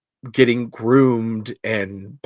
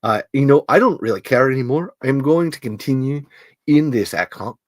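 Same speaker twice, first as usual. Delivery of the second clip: put-on Scottish accent; 2 semitones lower than usual. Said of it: "I've gone Scottish".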